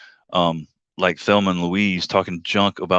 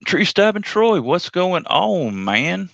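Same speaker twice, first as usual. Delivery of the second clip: cheery greeting; 12 semitones higher, slower than usual. Real, not acted. Greeting a chat viewer.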